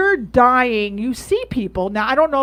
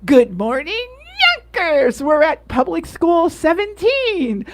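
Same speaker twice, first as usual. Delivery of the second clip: mock Yonkers accent; 4 semitones higher than usual. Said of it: "she does these videos where she goes".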